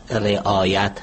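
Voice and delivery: رعایت said slowly as re-aa-yat; correct pronunciation. Shown as a demonstration. Linguist correcting broadcasters' mistakes, رعایت as re-aa-yat. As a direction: draw out رعایت with a clear e-sound at the start, re-aa-yat. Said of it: "تلفظ درست رعایت".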